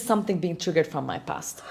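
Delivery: whispered inner question. Acted. Coach voicing her own inner doubt, whispered. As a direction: breathe it as a secret doubt.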